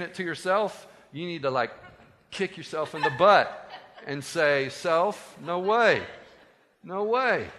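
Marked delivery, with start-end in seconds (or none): 4.7-7.5 emphatic refusal, pitch jumping on the repeat; firm self-rebuke. Acted. Telling yourself off for listening to that voice, firm refusal. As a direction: tell yourself off firmly.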